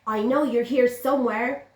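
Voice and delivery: a cat hunting for the mouse. Acted. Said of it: "said the cat".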